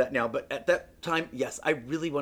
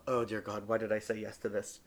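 quiet inner groan; 6 semitones lower, 7 dB quieter than usual. Retold or imitated. Inner thought, dismayed.

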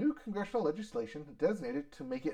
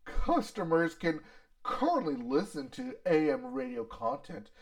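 Ford CEO voice. Retold or imitated. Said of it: "Is this your Ford C E O voice?".

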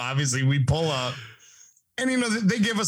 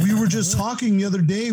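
high, slightly louder retold disbelief; baffled protest; 7 semitones higher, 4 dB louder than usual. Doug hears his friend is upset, baffled. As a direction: imitate a bewildered friend protesting.

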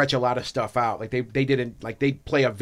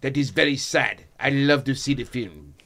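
lightly voiced fake French accent; a hint of a mock Frenchman; terrible French accent. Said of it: "That's a terrible French accent".

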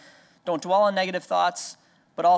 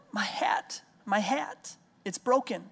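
imitating a crying toddler; 4 semitones higher, 3 dB quieter, slower than usual. Father imitates crying daughter.

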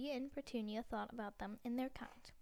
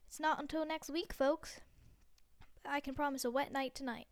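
chirpy TV weather voice; cheery weatherman; 3 dB louder than usual. Acted. Weatherman answering the anchor, cheery.

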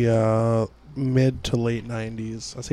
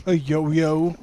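Santa voice; 7 semitones higher than usual. Pretend. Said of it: "It's Santa Claus".

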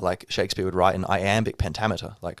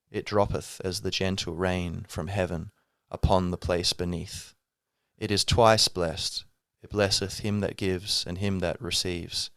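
recital; slower than usual. Acted. Recites Merchant of Venice speech.

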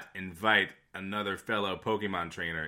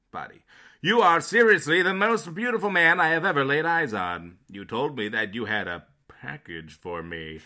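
put-on old radio announcer; 2 semitones lower, 5 dB louder than usual. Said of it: "You always read these like an old-timey radio announcer".

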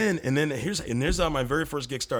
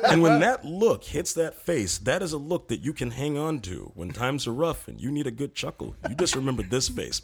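pompous comedic persona; 4 semitones higher, 4 dB louder than usual. Acted. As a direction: deliver absurd wisdom with mock gravity, pausing. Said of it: "would you be so kind to go through maybe a little sequence".

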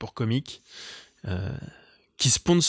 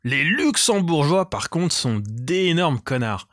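higher, mock-scandalised opener; mock outrage; 4 semitones higher than usual. Comic on a podcast, pretending to slam Luxembourgers, mock outrage. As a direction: announce it like a juicy insult.

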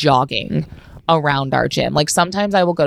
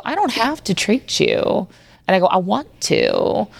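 reassuring; 5 semitones higher, slower than usual. Retold or imitated. Reassuring her apologizing patient.

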